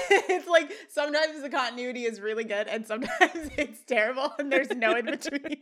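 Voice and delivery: talking through laughter; amused, laughing while speaking. Real, not acted. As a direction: giggle the words out.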